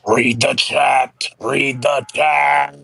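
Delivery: drawn-out, nagging demand; mock complaint. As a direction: draw each word out slowly like a complaint. Mocked as complaining Karen.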